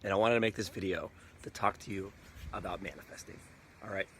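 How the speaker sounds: hoarse after a night out partying; rough, worn-out voice from no sleep; raspy whisper. Real, not acted. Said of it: "excuse my voice, I've been out all night".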